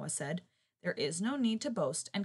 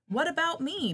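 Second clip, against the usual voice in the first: loud, high indignant bray; braying donkey; 10 semitones higher, 6 dB louder than usual. Acted. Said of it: "brayed the donkey".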